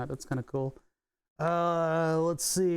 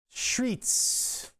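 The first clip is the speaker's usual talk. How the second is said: Streets with a Philly shr, hammed-up; exaggerated Philly accent; 7 semitones higher than usual. Shown as a demonstration. Streamer exaggerating his Philadelphia accent for chat, breathy and higher. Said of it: "If I exaggerate it a little bit".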